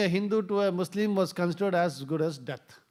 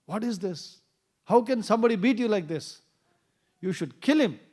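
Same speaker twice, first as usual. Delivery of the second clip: upset; 5 semitones higher, 4 dB louder than usual. Retold or imitated. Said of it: "his wife was very upset".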